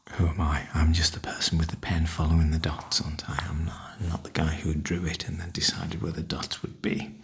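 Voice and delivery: hushed unvoiced musing to himself; soft whisper. Real, not acted. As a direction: whisper it, half to yourself. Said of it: "this is a softly spoken video".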